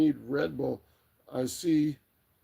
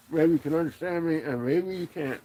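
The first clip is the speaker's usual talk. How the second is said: mumbling around a cigar; cigar in mouth; 3 semitones higher, 5 dB louder than usual. Real, not acted. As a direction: talk with a cigar between lips. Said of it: "that's me talking with the cigar in my mouth".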